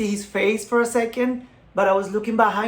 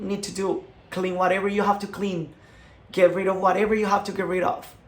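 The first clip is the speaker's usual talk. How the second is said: tearful prayer. Retold or imitated. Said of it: "I started crying like I never cried in my life".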